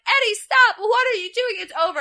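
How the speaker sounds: high, loud frantic pleading; frantic pleading shout. Retold or imitated. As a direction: beg him to stop, shrieking. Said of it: "they're like".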